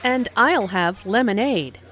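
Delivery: emphasize "I'll", then "lemonade"; "I'll" and "lemonade" stressed as a personal choice. Shown as a demonstration. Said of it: "Notice how Anna stresses".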